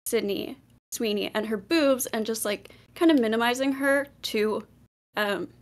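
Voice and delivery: breathless, talking between gasps; winded, short of air; out of breath. Real, not acted. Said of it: "I'm out of breath".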